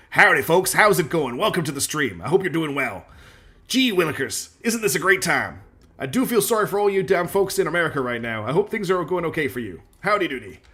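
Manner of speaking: cartoonish American howdy voice; dumb American accent. Shown as a demonstration. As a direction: put on a big cheery hick American host. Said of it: "dumb American accents when I pl".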